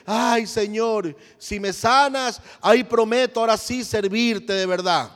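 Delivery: ruego lento y alargado, burlón; súplica fingida. Retold or imitated. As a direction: imita al moribundo que suplica por interés. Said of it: "viene a decir". (el moribundo hipócrita le ruega a Dios, súplica lenta y burlona)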